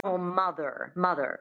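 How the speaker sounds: MOTHER with a sounded final R; American rhotic R. Shown as a demonstration. Coach modelling American, mother with rhotic R. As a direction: curl the R at the end of MOTHER. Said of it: "So that's the American".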